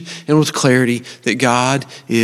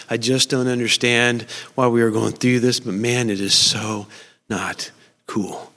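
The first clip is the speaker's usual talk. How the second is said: angry prayer; 3 semitones lower, 5 dB quieter than usual. Retold or imitated. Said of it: "just so angry, going".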